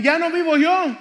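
high, ringing declaration of faith; loud proclamation. Acted. Preacher repeating his favorite verse to the congregation, loudly proclaimed. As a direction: proclaim it at full voice to the room.

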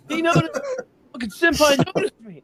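high, thrilled fan voice; mock fangirl squeal. Joking that the band noticed him, high and gushing. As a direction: gush like an anime fan.

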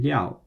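"liao" with a falling fourth tone. Shown as a demonstration. Teacher models the syllable for learners, fourth tone. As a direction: drop sharply through "liao", Mandarin fourth tone. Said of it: "in the fourth tone".

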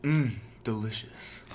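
slow, savouring mmm delicious; appreciative mmm. Pretend. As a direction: relish the taste slowly. Mock sponsor read.

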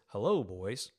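put-on sweet, cheeky hello of a little girl. Seven-year-old greeting boys, lightly voiced cheeky girl. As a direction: play the seven-year-old who ignores coaching. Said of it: "ignores my coaching and says".

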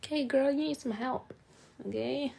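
high, lightly voiced caring mom; mom's voice. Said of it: "So she's like".

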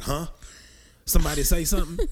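hammed-up voice that perks up suddenly; perked-up silly voice. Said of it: "the dick be like".

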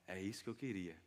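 soft, low, tender reply; acted calm, hushed comfort; gentle reassurance. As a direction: answer the confession quietly and kindly. Jesus gently answers Peter's confession.

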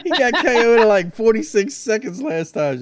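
laughing loudly while talking; cracking up mid-sentence. Real, not acted. Laughing at opponent's quick KO.

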